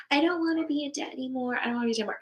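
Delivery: mock negative self-talk; negative affirmation. Shown as a demonstration. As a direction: run through it as the wrong way to affirm. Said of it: "So it is not".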